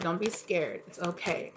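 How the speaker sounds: soft, gentle reassurance of a calming voice; quietly comforting, like to a frightened child; soothing reassurance. Retold or imitated. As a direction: hush them kindly, don't be scared. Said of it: "Spirit said".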